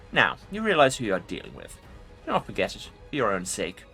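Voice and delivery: menacing lich warning; ancient rasping undead king. Acted. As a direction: threaten them coldly as the lich. Lich warns the player.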